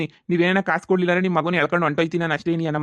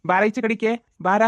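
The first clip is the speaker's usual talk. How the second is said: raised, higher call to someone out of sight; 5 semitones higher than usual. Acted. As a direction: call him out of the house. Lender calls Shyama outside.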